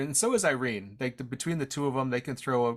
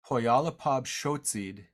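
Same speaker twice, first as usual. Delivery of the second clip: slow and careful; slower than usual. Shown as a demonstration. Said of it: "My grandpa called it this one".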